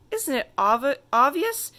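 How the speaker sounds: high, loud disbelief; indignant. A narrator's reading. Little princess scoffing at her friend, high and indignant. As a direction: scoff at such a silly question.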